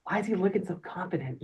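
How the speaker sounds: soft whispered question; quiet catty whisper; whispered aside. Retold or imitated. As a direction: murmur it behind your hand. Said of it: "that person whispers".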